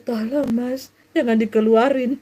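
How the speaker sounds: lightly acted coy plea; mock pleasure plea. Shown as a demonstration. Preacher acts someone pretending to resist a lover, mock coy pleading. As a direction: plead as if secretly enjoying it. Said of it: "mana yang teriakan keenakan".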